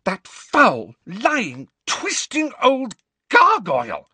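loud, high, furious outburst; stormed. A narrator's reading. Hermione storming against Umbridge, furious. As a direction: let it burst out in rage. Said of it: "stormed Hermione".

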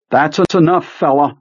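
high, sharp outcry; crying out. Acted. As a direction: cry it out sharply. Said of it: "Beaver cried".

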